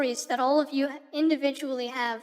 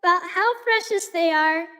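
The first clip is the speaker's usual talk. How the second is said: put-on bubbly valley girl, stretching every totally; 3 semitones higher than usual. Shown as a demonstration. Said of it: "the Valley Girl filter".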